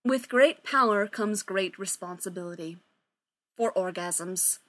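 solemn mock gravity; very seriously. The speaker solemnly quoting to the band, deadpan serious. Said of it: "very seriously".

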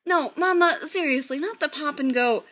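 loud, urgent plea; alarmed pleading. A narrator's reading. Son begging his mother not to pop over, alarmed. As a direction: plead to stop her.

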